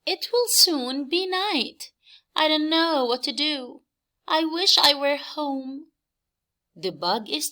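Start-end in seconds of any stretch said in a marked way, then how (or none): 0.0-5.9 high bug voice, a little hurried; a lost bug fretting as night comes; lightly voiced worried bug.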